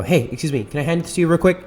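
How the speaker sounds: smiling, friendly approach to a stranger; big smile voice. Retold or imitated. Vlogger greeting a stranger on the street, friendly smiling ask. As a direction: sound eager and polite, smile in the voice. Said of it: "a big smile on my face".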